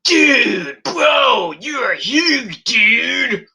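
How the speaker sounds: high, loud amazed gush; awed Riddle. Retold or imitated. Riddle marvelling at the Great Khali, loud and high. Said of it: "Riddle's like".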